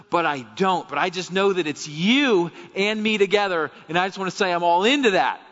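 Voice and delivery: fervent, high-pitched plea to God; emphatic preacher voicing a believer's cry; impassioned preaching. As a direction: pour it out as an earnest confession.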